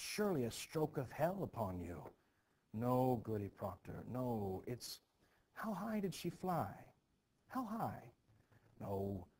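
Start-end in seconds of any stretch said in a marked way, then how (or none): 5.5-8.0 eager disbelief. Acted. Eager gossip hearing of flying.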